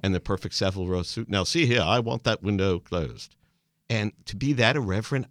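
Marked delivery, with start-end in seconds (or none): 1.3-3.3 a hint of an indignant banker, the second line slowed; lightly lampoon a bowler-hatted gent demanding the window shut; mocking a stuffy banker. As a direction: band members teasing a banker in a train compartment, mock stuffy. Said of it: "making fun of the banker with the bowler hat".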